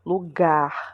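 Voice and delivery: Lugar leaning on the final "gar"; stress on last syllable. Shown as a demonstration. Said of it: "a gente faz mais força pra falar".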